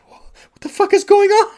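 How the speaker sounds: very high, loud hysterical scream; out of her mind. Shown as a demonstration. Director's version of Sarah in the elevator, hysterical scream. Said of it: "Like, out of her mind".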